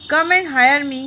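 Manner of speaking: loud call for work; crying out. Acted. A jobseeker loudly calling out in the morning street. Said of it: "I cried while in the morning".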